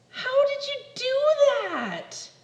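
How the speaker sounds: slow, high astonished little critter; amazed high caterpillar voice. Acted. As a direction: marvel at the trick, slowly.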